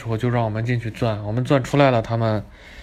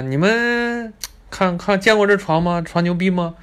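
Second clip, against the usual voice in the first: higher, slowed, show-off tour guide; mock smug guide; 5 semitones higher than usual. Retelling the guide bragging to tourists, smug mock voice. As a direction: lord it over the tourists.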